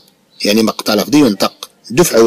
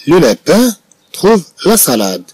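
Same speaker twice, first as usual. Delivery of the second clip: "Le lapin trouve la salade" read slowly again, pitched higher; slow, higher repeat; 5 semitones higher, much slower than usual. Shown as a demonstration.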